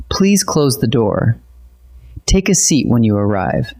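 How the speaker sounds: even, ordinary voice, unhurried; calm and polite. Shown as a demonstration. Teacher demonstrating polite directions, calm and even. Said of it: "spoken in an even, ordinary voice".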